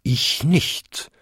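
short denial from a big bell, rising at the end; bonging second bell. A narrator's reading. Second-biggest bell denies clapping, bonging. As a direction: toll it like a bell's bong. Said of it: "bummte die zweitgrößte".

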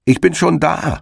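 hoch, siegessicher gerufen; triumphierender Zuruf. A narrator's reading. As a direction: dem ankommenden Hasen zurufen. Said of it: "rief ihm der Herr Igel entgegen". (Igel ruft dem Hasen siegessicher entgegen)

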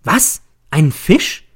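high, sharp shout of disbelief; astonished, high-pitched exclamation; startled cry. A narrator's reading. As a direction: leap up and cry out, pitch shooting up. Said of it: "Ich schnelle empor und schreie".

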